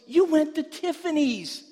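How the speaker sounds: wife's excited quote. Retold or imitated. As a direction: squeal it like the delighted wife. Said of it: "She goes".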